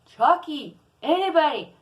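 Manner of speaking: high, loud drawn-out calls to the family; screaming for help. Retold or imitated. Ten-year-old calling family to help with the baby, screaming. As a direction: yell out for anyone in the house, name by name. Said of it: "I was screaming".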